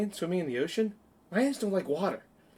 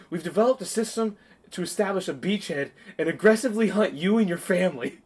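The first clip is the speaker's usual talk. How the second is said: louder, higher mock-threatening speech; hammed-up battle threat; Will Ferrell quote; 4 semitones higher, 6 dB louder than usual. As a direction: declare war on the lion family. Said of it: "Will Ferrell goes".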